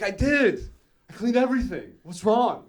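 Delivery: high-pitched, defensive son act; panicked protest. Acted. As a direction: plead innocence to an angry mother. Son protesting to angry mom.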